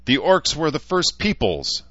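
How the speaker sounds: very high, shrill orc shriek. Acted. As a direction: screech it in outrage. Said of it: "the voice shrieked back".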